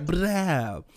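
drawn-out "brow" gunshot noise; new-rapper ad-lib. Retold or imitated. Showing how new rappers do it, brow ad-lib. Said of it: "these new rap".

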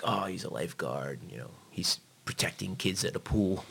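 softly voiced quote of a proud grandmother; proud grandmother, imitated. Grandmother proud of her lifeguard grandson, lightly imitated soft pride. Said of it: "my grandmother was so proud".

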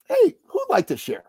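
high, upbeat call to the room; pitched high to carry across a room; calling for volunteers. Retold or imitated. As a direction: call out an invitation to the group. Calls for a volunteer from stage.

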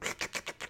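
soft slurping noise; imitated food slurp. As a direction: mimic slurping up noodles. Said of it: "slurping my food".

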